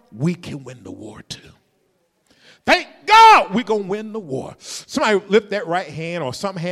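loud, high rousing preaching; full-force preaching. Acted. Preacher rousing the congregation about winning the war. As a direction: build the room to a shout.

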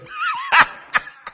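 high whooping laugh; shouting laugh; joyful shouted laugh. Real, not acted. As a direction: burst out laughing with joy.

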